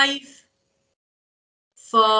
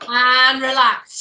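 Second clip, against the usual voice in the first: relax; 4 semitones higher, 7 dB louder, slower than usual. Shown as a demonstration. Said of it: "coach guiding the class".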